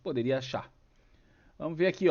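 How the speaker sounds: ordinary delivery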